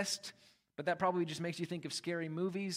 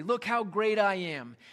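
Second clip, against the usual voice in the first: mock chest-puffing boast; 3 semitones higher, 6 dB louder than usual. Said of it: "puffing out his chest".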